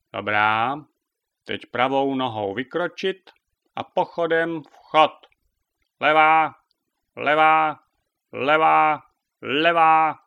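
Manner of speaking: loud marching count; drill command. A narrator's reading. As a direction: bark out each step to the squad. (hlasité pochodové povely)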